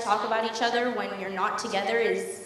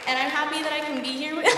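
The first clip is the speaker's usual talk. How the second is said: welling up; 5 semitones higher than usual. Real, not acted. Daughter to her mother and stepdad, choking up and rising in pitch. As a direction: voice rising as she starts to cry.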